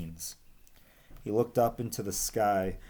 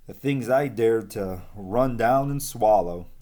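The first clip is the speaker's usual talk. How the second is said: bragging; 5 dB louder than usual. Acted. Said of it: "Umbles bragged".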